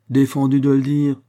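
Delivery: loud, high incredulous repeat; indignant echo. A narrator's reading. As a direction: throw the excuse back angrily. Policeman angrily echoes waiter's excuse.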